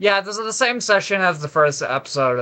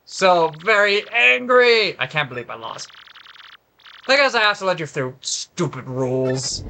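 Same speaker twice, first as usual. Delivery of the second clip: sore-loser quiz host. Acted. Beaten quiz host has to let player through, sulky anger. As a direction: grudgingly concede like a beaten villain.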